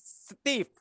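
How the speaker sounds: "stiff" with a short I vowel. Shown as a demonstration. Grammarian adding another word, S T I F F, short-I vowel. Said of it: "S T I F F".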